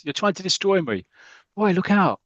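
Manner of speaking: high, loud panicked yell; frantic shout. Acted. Blake lunging at Roy, yelling. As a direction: scream the warning.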